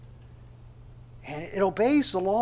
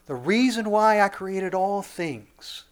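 slow, drawn-out divine declaration; voice of God; 3 semitones higher, slower than usual. Acted. God revealing why he created all things, slow and solemn. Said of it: "And God says".

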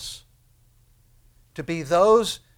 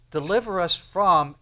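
"from" louder and drawn out; stress on "from"; 2 semitones higher, 5 dB louder than usual. Shown as a demonstration. Preacher showing the prayer's emphasis, stress on "from". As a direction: land hard on the word "from". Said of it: "But the emphasis is".

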